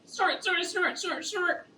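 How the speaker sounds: pig snorts. Shown as a demonstration. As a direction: snort like a hungry piglet. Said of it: "do you ever go".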